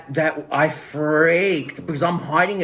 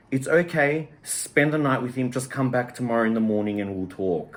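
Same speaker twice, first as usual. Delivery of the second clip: retold calm. Mother calls back to accept her child, retold calmly. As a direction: voice a mother calmly reassuring, easing down to a close. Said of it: "really calmly just said".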